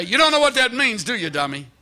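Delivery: mock the clueless reader with a laugh; the preacher hamming up a condescending Philip; mock scornful. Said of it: "He didn't say".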